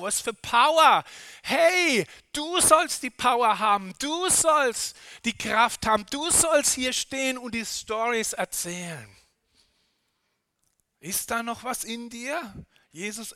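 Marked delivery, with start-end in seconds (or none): 0.0-9.1 fired-up preaching. Real, not acted. Preacher firing up congregation.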